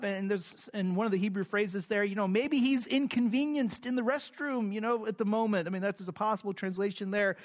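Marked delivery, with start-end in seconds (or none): 2.3-5.7 mocking taunt. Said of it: "he's mocking their idea".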